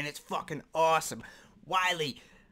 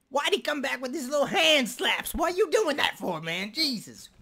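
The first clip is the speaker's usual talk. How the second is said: higher, incredulous complaint; exasperated; 8 semitones higher than usual. Real, not acted. Reactor baffled by the weak diss, incredulous and high. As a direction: ask it like you can't believe it.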